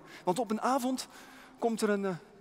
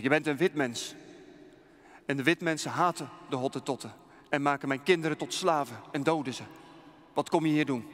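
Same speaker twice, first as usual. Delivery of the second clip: a hint of a stern, louder chieftain; stern king; 4 dB louder than usual. King challenging the white missionary, stern and louder. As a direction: challenge the stranger, a touch louder.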